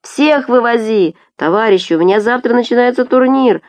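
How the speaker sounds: high, urgent calling out; clamouring passengers. A narrator's reading. Tourists fighting for a seat, clamouring. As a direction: plead and demand over a crowd.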